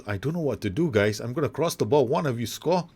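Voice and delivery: lightly voiced player calling to his mates; acted player Phelan. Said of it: "Phelan goes".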